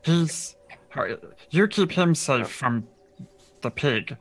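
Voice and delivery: halting instructions in a character voice; hunting guide. Acted. Guide telling the party to keep him safe, put-on character voice. Game master plays the guide.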